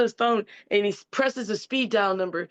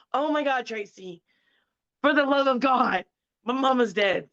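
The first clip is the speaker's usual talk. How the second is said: higher, louder pleading to stop; exasperated protest; 5 semitones higher, 4 dB louder than usual. Retold or imitated. Telling Tracy his dead mom can't answer, pleading. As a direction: beg him to drop it, half laughing.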